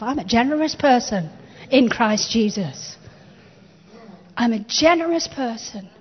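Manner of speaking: emphatic, measured declaration with firm pauses; faith declaration. Shown as a demonstration. Preacher models for the congregation speaking faith over yourself, declaring. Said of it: "Go on, speak faith over yourself".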